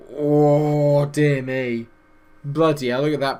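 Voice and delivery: loud surprised outburst; shocked exclamation. Real, not acted. Shocked at league table.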